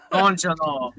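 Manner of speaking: put-on slow Minnesota-accent echo; mock Minnesota accent. Echoing the friend's joke, in a mock Minnesota accent.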